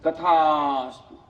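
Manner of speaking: slow, drawn-out divine voice; sea god granting. Acted. Sea god grants the poor man's wish, slow and solemn. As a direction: stretch it out like a god granting a boon. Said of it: "તથાસ્તુ, (sea god's reply)".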